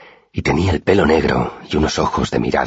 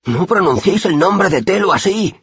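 stern pious rebuke. A narrator's reading. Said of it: "dijo el chico que estaba a mi izquierda".

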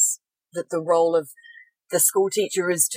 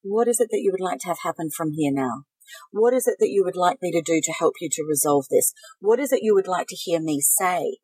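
gentle. Shown as a demonstration. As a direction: throw them a love ball, gently. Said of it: "say gently to them".

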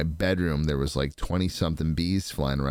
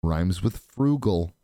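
put-on a wise future self telling young Josh what to invest in; older self advising; 3 semitones lower than usual. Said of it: "be like".

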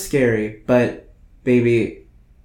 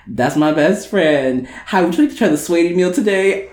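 mock drive-thru voice; 3 semitones higher than usual. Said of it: "she's on the microphone and she's like".

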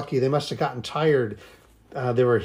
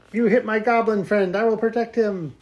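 higher, brave protector voice; heroic character voice; 8 semitones higher than usual. Pretend. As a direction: stand up for your friend. Character defends goblin friend.

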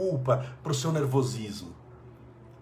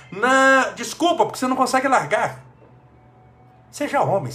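loud rebuke; 9 semitones higher, 6 dB louder than usual. Real, not acted. Rebukes the addict's excuses.

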